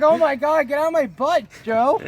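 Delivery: loud, high-pitched comic outcry; mock alarmed yell. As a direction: yell at him in hammed-up alarm. Acting out alarm at Joe.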